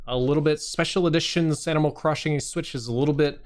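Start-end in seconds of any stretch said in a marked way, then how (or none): 0.6-2.7 "special editions Animal Crossing Switch" with every S slurred into a lisp; lispy imitation. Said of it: "A little bit lispy".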